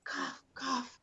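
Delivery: fake cough words. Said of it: "It would be like".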